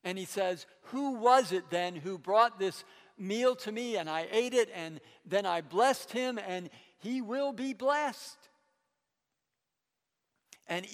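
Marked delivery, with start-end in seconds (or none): 0.9-8.5 mildly angry demand, louder than usual. Acted. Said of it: "really mad".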